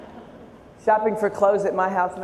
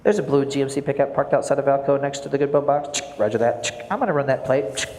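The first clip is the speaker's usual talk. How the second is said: police radio voice; 3 semitones lower than usual. Retold or imitated. Police radio exchange continues.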